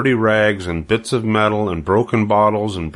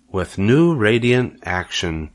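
slowly repeated; slower than usual. Acted. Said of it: "repeated Charlotte slowly".

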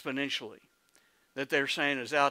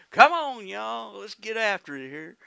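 high-pitched Oklahoman rallying cry, loud at first; Oklahoma twang; 6 semitones higher, 4 dB louder than usual. Shown as a demonstration. Preacher urging the congregation to get after it, Oklahoma twang. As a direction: holler then ease off in Oklahoma accent. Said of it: "I can talk as good 'cause I'm from Oklahoma".

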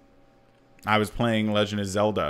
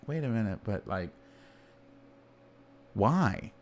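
much softer, puzzled muttering; baffled crowd; 5 dB quieter than usual. Retold or imitated. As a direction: ask it quietly in disbelief. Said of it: "And everyone's like".

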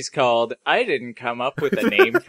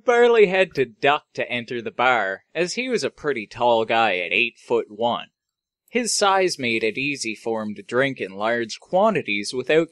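measured storyteller read with pauses; story narration; 3 semitones lower than usual. A narrator's reading. Host reading his space bar story to co-host, story narration. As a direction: narrate it like a tall tale.

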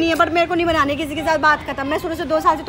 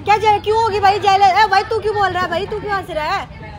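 louder, higher, hotly denying; indignant outburst; 4 semitones higher, 3 dB louder than usual. Real, not acted. Girl denies being jealous to her partner, indignant. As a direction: snap back at the accusation.

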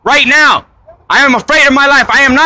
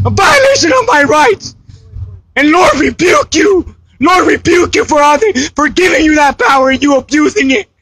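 shouting in real distress at gunpoint; desperate shout. Real, not acted. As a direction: cry out against the injustice. Pleading with police at gunpoint.

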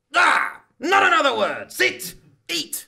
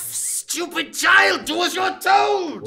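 angry scolding. Acted. Father scolds child.

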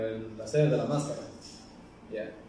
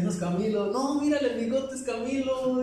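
very high, loud quoted squabble; pitched-up, hammed-up dispute; animated mock argument; 13 semitones higher, 6 dB louder than usual. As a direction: imitate strangers insisting over a star sighting. Retold argument over who he is.

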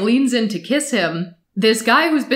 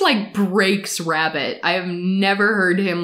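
normal talking voice

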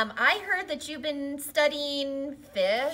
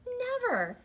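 shouted refusal; 12 semitones higher than usual. Acted. Fish refuses to give scales.

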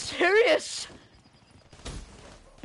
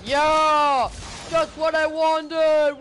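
excited cheer; 4 dB louder, slower than usual. Real, not acted. Cheering a big reward in game.

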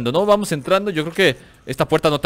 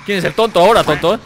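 louder, gloating jab at the enemy; taunting; 4 semitones higher, 6 dB louder than usual. Real, not acted. Gamer taunting a downed enemy, mock gloating. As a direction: rub it in with a sneer.

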